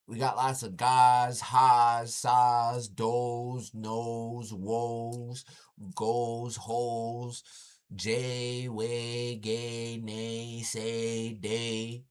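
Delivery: rhythmic string of ga, ha, sa syllables; sampling the syllables. Shown as a demonstration. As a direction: list the sounds like a sample of the language. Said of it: "That's what the language sound like".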